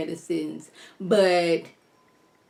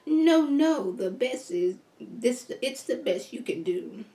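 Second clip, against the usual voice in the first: evil grandma voice; 2 semitones higher, 3 dB quieter, slower than usual. Acted. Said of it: "four or five different voices".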